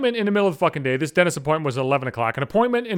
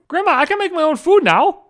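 defiant brag; 11 semitones higher, 4 dB louder than usual. Pretend. Addressing grandma defiantly.

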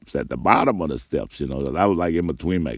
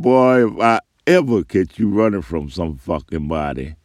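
a louder stern father threat; father warning his son never to run; dad's angry warning; 2 semitones higher, 5 dB louder than usual. Retold or imitated. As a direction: scold the boy with heat. Dad scolds son.

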